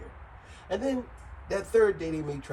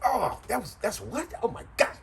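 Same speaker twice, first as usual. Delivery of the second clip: shrieking high disgust, breaking into a laugh; mock disgusted; 10 semitones higher, 5 dB louder than usual. Friend learns what they ate, squealing in disgust. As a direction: recoil in horror at the food, laughing.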